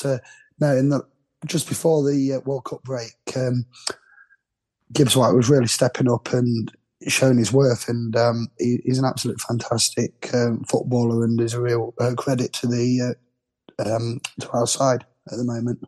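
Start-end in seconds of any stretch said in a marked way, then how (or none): 4.9-15.8 hoarse from the flu; rough, flu-worn gravelly voice. Real, not acted. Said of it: "feeling the effects of it a bit more than me, certainly in your voice".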